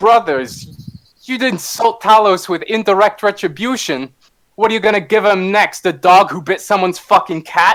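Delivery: loud, high, strong call. Playing a fighter with sword and shield off her back, call out before attacking, in a Siren voice. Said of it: "I'm going slipping in a Siren voice".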